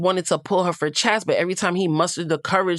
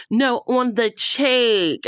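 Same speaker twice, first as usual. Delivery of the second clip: higher, slow, drawn-out mock whine; slow, higher whiny imitation; whiny correction; 6 semitones higher, much slower than usual. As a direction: drag it out like a spoiled girl. Mimicking Kenzie correcting Corbin.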